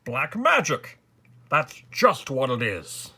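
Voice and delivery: relieved sigh. A narrator's reading. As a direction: seize on the explanation with loud relief. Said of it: "sighed the king with relief".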